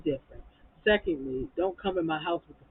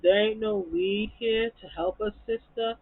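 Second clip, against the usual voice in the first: higher, louder, drawn-out mock demand; slow, raised-voice imitation of a diva complaint; Toya; 5 semitones higher, 4 dB louder than usual. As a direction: imitate her demand, raised pitch, stretched words. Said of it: "And then Toya was like".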